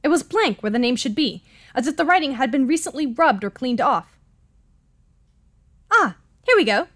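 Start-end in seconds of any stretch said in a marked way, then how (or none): 5.9-6.9 higher-pitched British gentleman; British accent. Acted. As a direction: announce it in a lifted British voice. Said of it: "should we give him a different accent".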